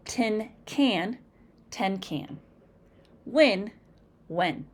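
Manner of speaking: tin, ten, Win, when said with clearly different vowels; short i versus e. Shown as a demonstration. Teacher demonstrates short i and e vowels. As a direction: split the i and e vowels. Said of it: "interchange the short I sound and the short E sound".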